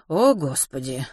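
slow, weary-sounding exclamation; repeated lament. Acted. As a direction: draw out the words in dismay. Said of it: "повторила миссис Померой".

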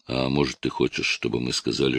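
ordinary delivery, nothing marked

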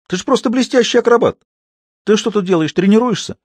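high teasing jester voice, lightly voiced; mocking Harlequin. A narrator's reading. Harlequin teases the fallen Scaramouche, high and mocking. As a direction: needle him with mock praise.

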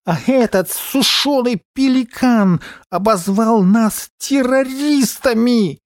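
high, slow indignant character voice; outraged, drawn-out complaint; возмущённый дикобраз. Acted. (возмущённо, высоким голосом)

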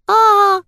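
high loud squealing wail; mock child's scream. Mother pranking son with a fake child's scream. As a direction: shriek like a scared little girl. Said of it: "запищала я".

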